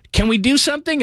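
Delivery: high pitched imitation of his wife asking; mock wife voice. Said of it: "when she looks at me and goes".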